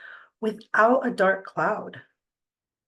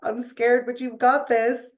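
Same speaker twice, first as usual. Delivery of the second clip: put-on higher, bright cheering for a nervous girl; encouraging cheer; 4 semitones higher than usual. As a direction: pump her up like a proud mom. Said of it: "I was just like".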